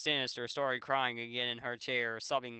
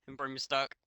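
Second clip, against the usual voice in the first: laughing. Real, not acted. Laughing at typo.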